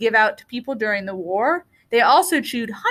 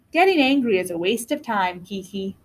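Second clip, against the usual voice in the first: calm mother; 4 semitones lower than usual. Acted. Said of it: "Her mother shook her head".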